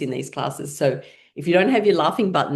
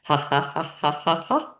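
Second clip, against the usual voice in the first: even, spoken-out ha-has; deliberate exercise laugh at talking pitch; laughing sounds. Shown as a demonstration. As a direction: chant fake laughter in time with tapping. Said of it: "as you're making laughing sounds".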